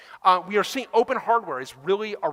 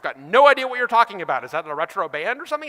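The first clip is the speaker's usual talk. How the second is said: louder, puzzled, a bit too breezy; clueless mock reply; 5 dB louder, faster than usual. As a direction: play the clueless buyer who has never heard of it. Clueless customer voiced.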